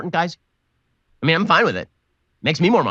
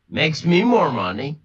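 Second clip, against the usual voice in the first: drawn out slowly, rising at the end; much slower than usual. Shown as a demonstration. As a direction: stretch Makes me more money slowly, lift money. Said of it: "I'm fine with it".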